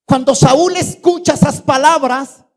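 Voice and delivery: usual speaking voice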